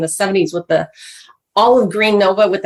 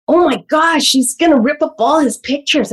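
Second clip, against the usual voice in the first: alarmed child retold; 5 semitones higher than usual. Retells child's alarm at mother.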